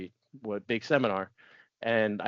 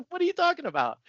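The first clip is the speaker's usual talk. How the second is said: much higher, laughing scoff; retold ridicule, pitched way up with a laugh; laughing mock disbelief; faster than usual. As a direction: squeal it out in mocking laughter. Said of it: "my gut reaction, I'm like".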